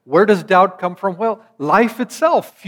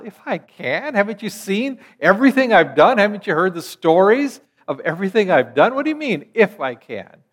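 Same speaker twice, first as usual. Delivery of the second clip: higher-pitched, smiling incredulity; mock protest through a smile, pitched up; 5 semitones higher, 3 dB louder than usual. Shown as a demonstration. Jesus teasing the doubting father, smiling disbelief. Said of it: "Did he say it with a smile?".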